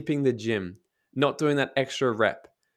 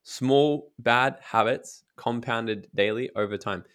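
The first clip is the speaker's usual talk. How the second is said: whisper; slower than usual. Real, not acted. Emphatic aside.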